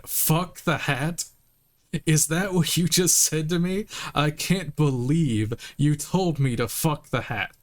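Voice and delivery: outraged cop repeating the insult; hammed-up indignation; indignant loud. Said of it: "You're saying it really loud".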